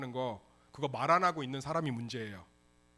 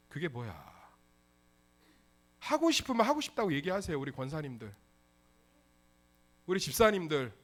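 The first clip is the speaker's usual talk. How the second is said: ordinary talk, nothing marked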